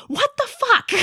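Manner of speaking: very high, laughing outburst of disbelief. Retold or imitated. Pet owner laughing in disbelief at her bad luck. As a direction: laugh it out in despair.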